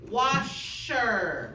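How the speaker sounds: "washer" drawn out as WASH, then SHER; syllables split apart. Shown as a demonstration. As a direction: model "washer" slowly, bringing out the sh. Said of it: "You hear that?".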